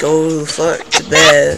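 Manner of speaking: drawn-out, fed-up command; slow stern order. Pretend. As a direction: lay each word down slowly. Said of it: "I'm gonna ask you nicely".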